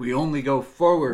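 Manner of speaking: big booming show opener; loud catchphrase. Acted. Host opening the show, loud. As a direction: belt out the catchphrase.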